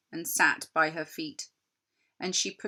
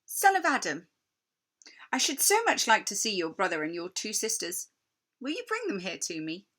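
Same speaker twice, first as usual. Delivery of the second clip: sweet queen. Acted. Queen sweetly asks Edmund to bring his siblings. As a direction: ask with false warmth.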